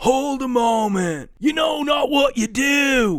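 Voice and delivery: very high, loud call with "do" stretched. Voicing a figure who beckons the party near: loud in-character call. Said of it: "and he says quite loudly".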